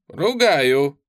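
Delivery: plain reading voice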